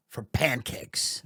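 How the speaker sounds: slow breathy whisper, no voice. Pretend. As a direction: drop to a hushed, dreamy whisper. Dreamy aside about pancakes.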